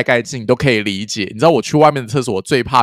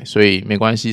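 ordinary talk

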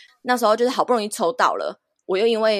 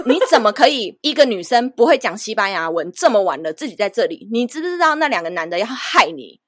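loud, raised voice, mock scolding a careless girl; retold angry scolding; 3 semitones higher, 5 dB louder than usual. Stranger in the car scolding the lone traveler, loud and angry. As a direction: imitate a stranger lecturing her for being reckless. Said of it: "他就一路一直骂我".

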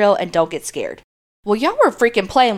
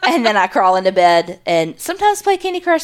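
laughing; 4 semitones higher than usual. Real, not acted. Laughing at own routine.

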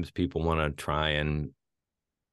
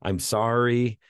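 higher, mildly desperate begging; imitated pleading; 5 semitones higher, 4 dB louder than usual. Reviewer acts out her dialogue to the man, mock pleading. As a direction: plead as the character, pitch creeping up.

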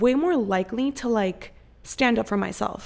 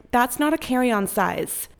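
curt dismissive tone; 3 semitones higher, 3 dB louder, slower than usual. Retold or imitated. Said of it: "when I give you guys the tone".

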